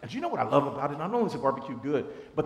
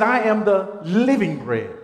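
proclaiming; 3 semitones higher, 6 dB louder than usual. Acted. Quoting Jesus with force.

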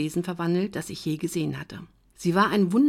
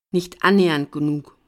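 a sullen, louder grumble; grumbling retort; 6 dB louder than usual. Acted. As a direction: growl it back at the bartender. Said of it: "brummte ich".

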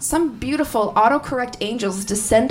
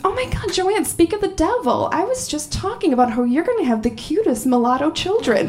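lightly voiced gushing mom, higher pitch; 5 semitones higher than usual. Mom gushing to her child on speakerphone, lightly imitated. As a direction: imitate an excitable mother chattering away.

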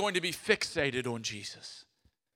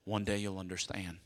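a hint of a stern dad, low and soft; lightly voiced father calming his son; 10 semitones lower, 11 dB quieter than usual. Dad's voice in story, lower.

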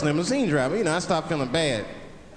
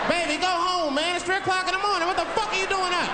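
put-on pitched-up call to a kid; high calling voice; 10 semitones higher than usual. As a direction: call out high through the window. Calling out to baby at 3am.

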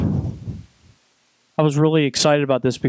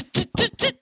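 ring announcer; 3 semitones lower, slower than usual. Acted. Announcing partner's wrestling name.

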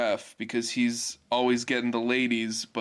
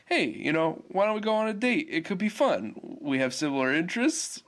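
lightly voiced higher-pitched suitor; casually asking someone out; 6 semitones higher than usual. Bolin asking Korra on a date, lightly acted casual pitch. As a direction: float the date idea, pitched up. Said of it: "He just asks her".

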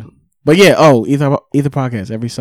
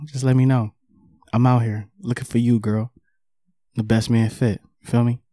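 sexy voice. Pretend. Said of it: "let me put my sexy voice on".

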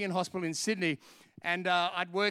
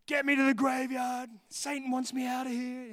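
a raised, strained mock yell from the patient; retold yelling; 5 semitones higher than usual. Preacher voicing the possessed patient begging to leave, mock yell. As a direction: cry out like a man possessed, half-performed. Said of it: "he's yelling out".

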